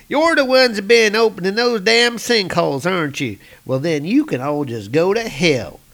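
sneering at the troll; angry townsman. Acted.

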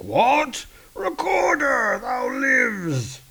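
very high, glad cry; joyful Hercules shout. Acted. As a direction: cry out in relief. Hercules overjoyed.

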